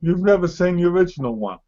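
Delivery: hammed-up horror at a heretic; mock outrage. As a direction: exclaim in playful disgust.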